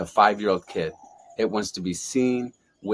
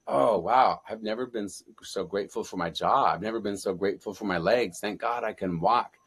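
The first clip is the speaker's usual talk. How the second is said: 1 quiet grateful awe; 5 dB quieter than usual. Retold or imitated. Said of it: "then you're like".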